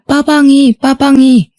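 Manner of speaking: lightly voiced toddler calling for his toy car; child's voice. Little son whining for his missing toy car, lightly voiced. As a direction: ask for the car like a small upset child. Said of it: "하더라고요".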